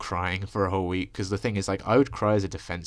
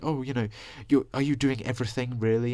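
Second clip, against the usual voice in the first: imitated doubting relatives; 5 semitones higher than usual. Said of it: "And they're like".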